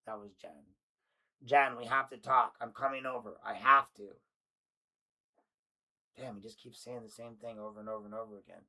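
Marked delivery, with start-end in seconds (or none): 1.4-4.1 loud urgent plea. Acted. Reading his desperate text.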